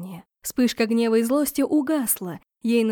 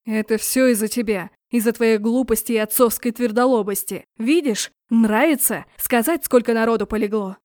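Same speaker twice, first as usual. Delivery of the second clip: angry words. Acted. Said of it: "зло сказал".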